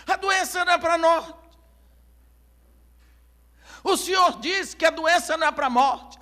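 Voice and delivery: high, loud insistent proclaiming; insisting loudly. Acted. Messenger pleading with the doubting crowd: loud insistence. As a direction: make them hear it, insistently.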